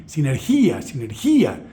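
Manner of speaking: "sinergia" said si-ner-GÍ-a, accent on the I; Greek stress on I. Shown as a demonstration. Lecturer repeating the Greek word for learners, "sinergia" stressed si-ner-GÍ-a. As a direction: hit the final I in "sinergia", GÍ-a. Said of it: "El acento está en la, en la I".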